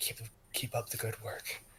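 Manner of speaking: hushed, soft, breathy whisper. Voicing a character who passes a wounded man: whispering.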